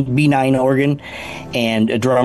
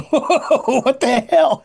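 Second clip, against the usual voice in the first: incredulous; 13 semitones higher, much slower than usual. Retold or imitated. Bandmates react to the singer.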